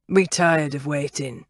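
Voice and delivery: low, gravelly killer voice; rough-edged villain voice. Acted. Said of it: "The killer had a gravelly voice".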